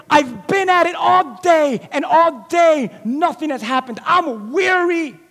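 slow, tired complaint; weary lament. Acted. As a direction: sound drained and worn out. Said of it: "Peter's like".

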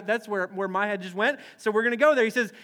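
ordinary talk

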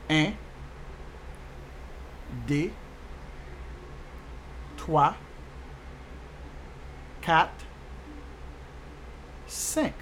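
un, deux, trois, quatre, cinq said the Creole way, deux as day; Creole counting. Shown as a demonstration. Teacher counting for learners, un to cinq in spaced-out Creole. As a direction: count un to cinq with long pauses for repeating. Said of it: "In Creole, you said".

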